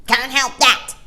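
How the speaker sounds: loud, leering taunt; bitter angry. A narrator's reading. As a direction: sneer it bitterly. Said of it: "bitter angry voice".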